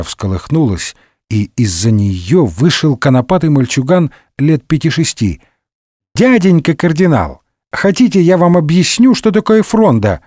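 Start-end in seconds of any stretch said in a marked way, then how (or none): 6.1-10.2 lightly voiced eager little boy, higher; a small boy offering to explain. Young Louis eagerly offering the cardinal an answer, high child voice.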